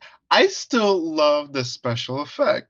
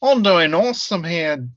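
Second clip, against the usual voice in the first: put-on failed Irish accent; 4 semitones higher than usual. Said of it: "I'm starting to sound like an Australian here".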